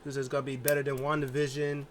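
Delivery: Bayley playing an excited show host; hosting excitedly. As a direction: welcome the crowd like a hyped host. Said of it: "She's like".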